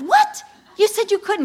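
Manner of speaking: very high, loud laughing disbelief; shocked disbelief. Retold or imitated. Wife reacts to husband's lost job, laughing shock. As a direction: gasp it out, half laughing.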